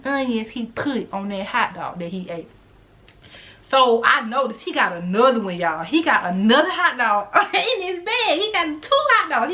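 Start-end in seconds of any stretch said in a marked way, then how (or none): 5.8-9.5 laughing disbelief. Real, not acted. Laughing at his two hotdogs.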